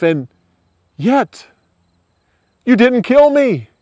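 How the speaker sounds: a humbled king begging his rival; remorseful king. Acted. King Saul, broken down, begs David to swear, emotional.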